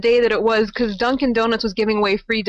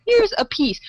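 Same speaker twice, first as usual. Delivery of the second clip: stingy; 10 semitones higher than usual. Retold or imitated. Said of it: "It's not like".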